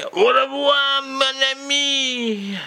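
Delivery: squeaky high au revoir; sing-song farewell up high. Acted. High falsetto goodbye.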